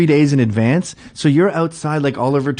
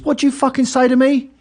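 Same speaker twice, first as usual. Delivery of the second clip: much higher, louder aggressive challenge; imitated angry challenge; 14 semitones higher, 4 dB louder than usual. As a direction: square up and snap it back. Friend confronting the clerk.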